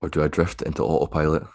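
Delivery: unhurried, spacious guidance, letting each phrase settle; guided meditation. Acted. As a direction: guide them gently into stillness, phrase by phrase. Resumes guiding the meditation.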